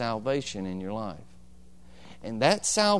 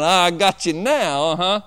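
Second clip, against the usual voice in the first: gloating sister; 5 semitones higher, 8 dB louder than usual. Retold or imitated. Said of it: "looking at me going".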